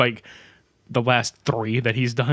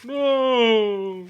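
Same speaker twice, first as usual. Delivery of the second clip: squeaky high cartoon yelp; 11 semitones higher than usual. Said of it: "he just sounded like".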